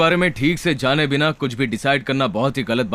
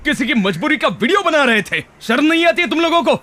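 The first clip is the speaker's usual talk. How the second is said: raised pitch, accusing tirade; indignant scolding; 8 semitones higher than usual. Acted. Man berating bystanders who filmed the victim, indignant. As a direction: berate them in rising indignation.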